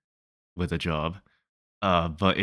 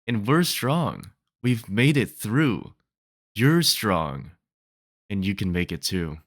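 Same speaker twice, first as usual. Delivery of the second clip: emphatic spoken-word pep talk; poem reading; 3 semitones higher than usual. Acted. Poet rallying the unemployed to keep going, encouraging poem reading. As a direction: urge the listener on, phrase by phrase. Reads own poem's encouraging close.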